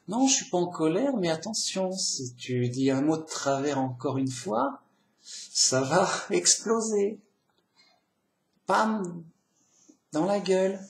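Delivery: a hammed-up denial of anger that boils over; mock angry threat. Preacher acting out an angry believer, hammed-up fury. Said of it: "C'est explosif".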